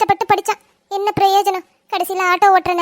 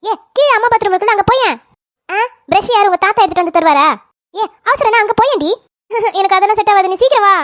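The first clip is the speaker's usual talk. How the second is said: shouting back and forth; 5 dB louder than usual. Acted. Sisters shout through the door.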